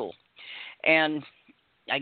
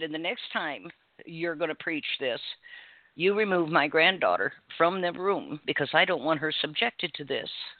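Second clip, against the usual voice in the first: ordinary delivery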